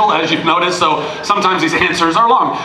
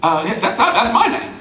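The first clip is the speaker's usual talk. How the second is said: laughing retold line; 5 semitones higher than usual. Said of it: "And he goes".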